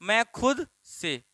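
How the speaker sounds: "मैं खुद से" said slowly, खुद stressed; slow dictation. Shown as a demonstration. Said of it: "मैंने क्या लिखा?". (धीमे-धीमे बोलकर लिखवाना, "खुद" पर ज़ोर)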